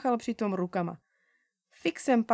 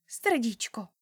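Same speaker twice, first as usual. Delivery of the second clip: whispered discovery; hushed, unvoiced Srdíčko. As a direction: breathe the word like a secret idea. Sudden idea about the sticker.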